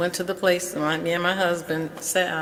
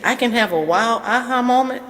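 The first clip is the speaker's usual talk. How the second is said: higher, louder echoed question; imitating her surprise, pitched up and louder; retold surprise; 6 semitones higher, 6 dB louder than usual.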